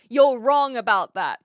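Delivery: mock whisper. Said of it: "the thing that you're talking about".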